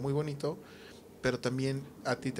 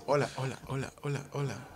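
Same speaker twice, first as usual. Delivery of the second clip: chorus effect. Shown as a demonstration. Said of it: "Es un chorus".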